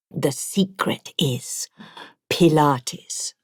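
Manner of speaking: a conspiratorial whisper, leaning in; whispered secret. Acted. Ibrahim confides his youthful secret to Donna, whispering. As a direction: let him share the secret under his breath.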